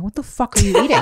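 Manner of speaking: high laughing outrage; half laughing, half appalled; annoyed. Retold or imitated. Annoyed at husband chewing.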